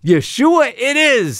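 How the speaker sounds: high, slow Brooklyn Jewish Joseph; Brooklyn Jewish accent. Acted. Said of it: "says Joseph".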